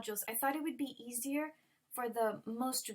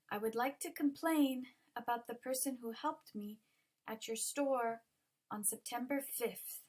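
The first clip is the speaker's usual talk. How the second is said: COMPLAIN, HELPED, STORE and FIFTH stressed at group ends; stressed key words. Shown as a demonstration. Teacher giving an example complaint for students, stressed key words. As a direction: pause after each group, leaning on "complain" and "store". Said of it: "how to stress important words".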